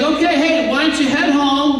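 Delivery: suggestive hint. Acted. King nudging a soldier to head home, suggestive hint. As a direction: drop a friendly, knowing hint. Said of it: "Wink, wink".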